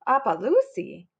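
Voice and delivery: "Appaloosie" with a sharp rise at the end; querying "Appaloosie", voice swooping up; puzzled question. A narrator's reading. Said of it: "asked Em".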